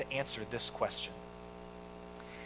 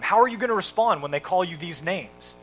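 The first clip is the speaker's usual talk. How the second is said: loud, raised, insistent mock yell; retold screaming; 4 semitones higher, 7 dB louder than usual. Dodgers owner testing Jackie Robinson in an interview, retold screaming. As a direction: imitate a boss hammering questions at someone. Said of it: "he starts screaming at him".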